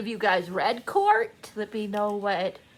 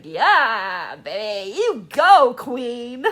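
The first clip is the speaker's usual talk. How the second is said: cheering her on; 6 dB louder, much slower than usual. Retold or imitated. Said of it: "I'm like".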